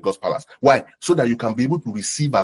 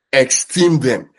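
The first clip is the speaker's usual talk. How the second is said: esteem them, slow and leaning on each word; slow, heavy stress on Esteem them; slow emphatic; 5 dB louder, much slower than usual. Shown as a demonstration. Preacher urging the church to honor pastors, slow and weighty. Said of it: "repeats scripture with weight".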